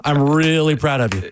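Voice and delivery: mock proud; sarcastic. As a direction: say it with a dry sarcastic tone. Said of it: "This is as sarcastically as I can give you credit".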